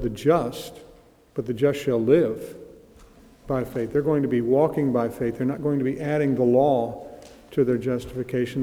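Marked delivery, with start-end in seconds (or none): 0.0-0.8 "just" leaned on, falling; stress on just. Shown as a demonstration. Preacher marking Romans' focus, stress on "just". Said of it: "the emphasis is not just on the word". 1.5-3.9 "shall live" slowed and weighted, falling on "live"; slow down and lean into "shall live"; stress on shall live. Shown as a demonstration. Preacher giving Galatians' focus, stress on "shall live".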